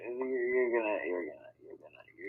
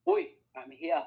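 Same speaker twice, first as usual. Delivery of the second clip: playful Chekhov answer; 6 semitones higher than usual. Pretend.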